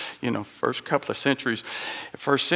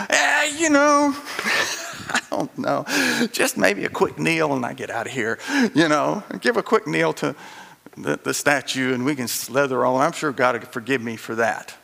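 half-hearted believer. Retold or imitated. Preacher mimics a lukewarm Christian for the congregation, lightly shrugging. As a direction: toss it off like someone dodging commitment.

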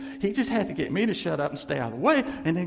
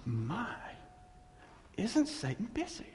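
quoting the pastor; 6 semitones higher, 8 dB quieter than usual. Retold or imitated. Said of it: "He goes".

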